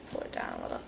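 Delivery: a deep, garbled first try at pull it down a little; a flubbed take of pull it down a little that she calls bad; botched take. Shown as a demonstration. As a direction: fumble the line pull it down a little. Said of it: "Okay, I know that's bad".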